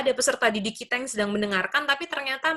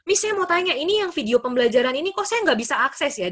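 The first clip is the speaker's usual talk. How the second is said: lightly voiced student, starting high; imitating student; 5 semitones higher than usual. Student asking the lecturer about a video, imitating student. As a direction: act out a student's puzzled question. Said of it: "chat saya gitu ya, mahasiswa".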